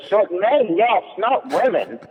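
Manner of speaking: high, slow, insistent correction; waitress insisting to her friend, high and slow; indignant waitress. Retold or imitated. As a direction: correct him in a high mock huff. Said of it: "He goes".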